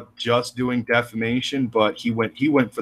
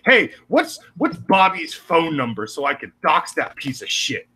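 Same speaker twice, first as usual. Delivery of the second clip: mock caller; 5 semitones higher than usual.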